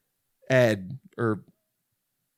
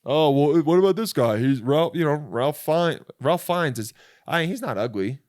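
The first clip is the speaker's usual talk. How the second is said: higher, louder imitation of an objector; mock protest, pitched up; objecting commenter; 4 semitones higher, 4 dB louder than usual. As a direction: pipe up like an indignant commenter. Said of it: "someone's gonna comment".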